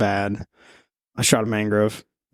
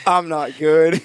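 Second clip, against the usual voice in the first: higher and pushed on the repeat; stressed repeat; 6 semitones higher, much slower than usual. Retold or imitated. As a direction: say it again with more alarm. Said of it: "repeats the quote".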